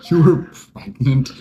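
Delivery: high, loud laughing echo of the joke; laughing repeat. Real, not acted. Cracking up at friend's pregnancy excuse, laughing. Joking about the cop excuse.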